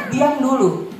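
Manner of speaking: put-on firm, patient mother telling the child to hush first; lightly voiced mum, calm but firm. Mother to crying son with Down syndrome, mildly firm. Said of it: "Saya selalu lihat".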